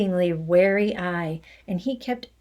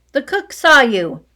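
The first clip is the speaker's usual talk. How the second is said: loud accusation; 3 semitones higher, 7 dB louder than usual. Acted. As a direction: hammer it home. Headmistress accusing loudly.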